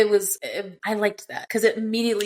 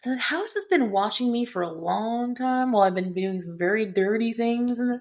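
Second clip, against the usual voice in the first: imitated elongated narration; 3 semitones higher than usual. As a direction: imitate a narrator stretching out the line. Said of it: "she elongated it really cool".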